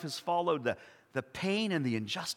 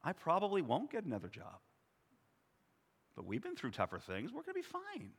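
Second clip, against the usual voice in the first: soft, quiet and calm, lightly acted; a hint of the wife's calm voice; calm reassurance; 9 dB quieter than usual. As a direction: gently reassure a worried husband. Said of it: "said calmly".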